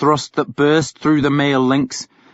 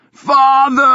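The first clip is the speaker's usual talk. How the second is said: full-throated cry, much higher and louder; shouting to the sky; 14 semitones higher, 7 dB louder than usual. A narrator's reading. Ragnar to his dead father, a howling shout. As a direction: roar it up at the clouds. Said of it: "he shouted".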